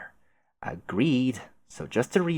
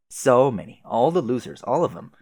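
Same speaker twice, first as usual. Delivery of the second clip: gleeful; 4 semitones higher, 5 dB louder than usual. Acted. Excited boast.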